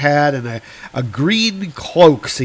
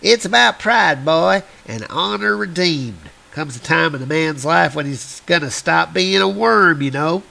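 lightly voiced old-timer; a hint of grizzled prospector; 2 semitones higher than usual. Old prospector repeats line.

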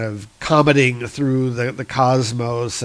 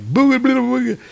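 dragon voice; 11 semitones higher, 3 dB louder than usual. Acted. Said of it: "he's like".

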